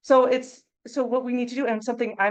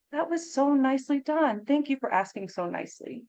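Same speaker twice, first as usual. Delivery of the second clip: warm praise; 5 semitones higher than usual. Acted. Teacher praising a child's practice.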